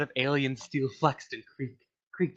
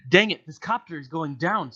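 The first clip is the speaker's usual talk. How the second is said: mild mock scream; 5 semitones higher, 5 dB louder than usual. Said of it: "screamed Phil".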